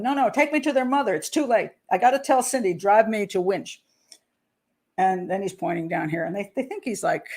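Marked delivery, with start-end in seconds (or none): 0.0-3.8 higher, insistent imitated babble; retold babbling. Father pleading with locals for a lift, babbling. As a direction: imitate a man pleading on without listening. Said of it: "he keeps babbling".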